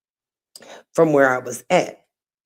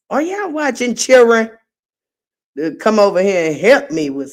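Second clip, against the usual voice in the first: teasing call; 5 semitones higher, faster than usual. Real, not acted. Calling out to her kids.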